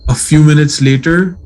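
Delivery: lightly creepy, measured horror-story narration; understated campfire-tale storytelling; attempted creepy voice. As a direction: read it like a scary story, pausing between sentences. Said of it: "do my creepy voice".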